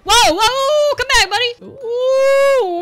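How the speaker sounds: high, loud call after him; whoa, calling him back. Real, not acted. Gamer calling after a fleeing character, high and loud.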